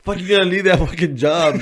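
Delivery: high, loud mock outrage; imitating outraged mom. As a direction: imitate a mother who can't believe it. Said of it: "my mom wanted to slap the shit out of me".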